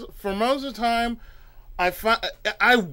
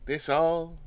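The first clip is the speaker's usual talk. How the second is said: skeptical cashier; 4 semitones lower, 8 dB quieter, much slower than usual. Retold or imitated. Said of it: "You look at me like".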